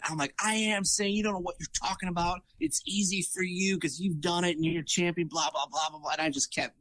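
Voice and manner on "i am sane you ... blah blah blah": higher-pitched retold protest, no real shouting; mock indignant yelling. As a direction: imitate yourself ranting back at your coach. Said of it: "I just kept yelling at her".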